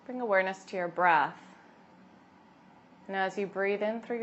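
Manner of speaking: calm, unhurried yoga teacher voice; guided meditation. Acted. Yoga teacher settling expectant mothers into breath, guided meditation. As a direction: guide them gently inward, leaving long pauses.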